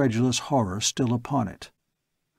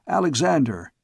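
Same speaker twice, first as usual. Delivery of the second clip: crowd shouting; 4 semitones higher than usual. Acted. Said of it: "heard the crowd shouting".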